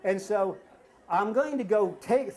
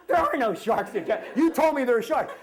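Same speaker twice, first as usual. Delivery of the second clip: acted exasperation; 5 semitones higher, 6 dB louder than usual. Acted argument between dad and son.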